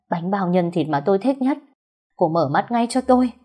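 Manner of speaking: rushed, desperate pleading at his wife's deathbed; mildly broken, fast pleading; voice breaking. Acted. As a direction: urge her to wake, voice cracking. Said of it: "giọng lạc hẳn đi".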